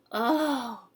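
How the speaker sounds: high breathy whisper of wonder; a small girl gasping at the turtle; awed little girl. Acted. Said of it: "Jeannie said".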